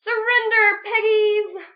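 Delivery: high, loud sing-song gloating; cackling witch. Acted. Witch Grinch cackling at the pigs from above.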